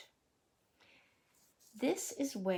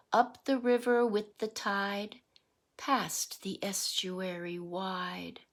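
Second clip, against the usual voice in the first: rhythmic picture-book read-aloud; reading to children; 3 dB louder than usual. Acted. Teacher reading a salmon picture book to the class, sing-song read-aloud. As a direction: read the verse to the class with a lilt.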